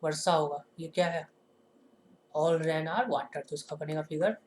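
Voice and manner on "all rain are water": very slow, word by word, for note-taking; dictating at a crawl; slow dictation. Shown as a demonstration. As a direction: spell it out slowly so the class can write it down. Teacher dictating an example sentence.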